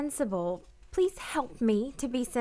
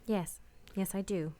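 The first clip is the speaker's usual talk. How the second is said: much softer, almost under her breath; quiet admission; 9 semitones lower, 7 dB quieter, faster than usual. Acted. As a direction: admit it barely aloud. Quiet confession of love.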